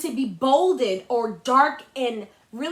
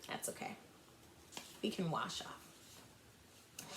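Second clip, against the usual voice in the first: soft reassurance; 10 semitones lower, 22 dB quieter, slower than usual. Acted.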